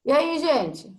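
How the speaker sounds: glitchy robotic voice over a lagging connection; choppy, robotic-sounding call audio; half robot voice. Real, not acted. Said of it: "só tá travado com a voz meio de robô".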